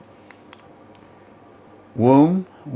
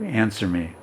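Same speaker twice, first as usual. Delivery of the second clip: soft entreaty; 6 dB quieter than usual. Retold or imitated. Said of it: "entreated, was requested by my mother".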